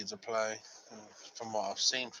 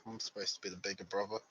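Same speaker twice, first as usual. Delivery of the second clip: quick, softer grumbled aside; under his breath; 3 semitones lower, 6 dB quieter, faster than usual. Acted. Brother following sister into her office, under his breath. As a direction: say it low and fast to yourself. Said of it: "under his breath he goes".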